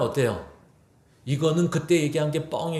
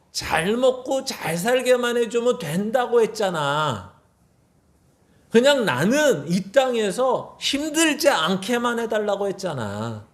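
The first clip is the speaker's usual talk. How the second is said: arguing complaint; 4 semitones higher than usual. Retold or imitated. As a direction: demand why, voice climbing higher. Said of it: "이렇게 따지는 거예요".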